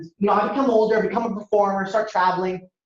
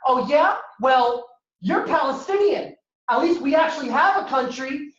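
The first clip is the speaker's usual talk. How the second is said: mock-indignant kid, pitched higher; really mad; 6 semitones higher than usual. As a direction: hit back with higher, offended challenges. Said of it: "Pakistani kids get really mad".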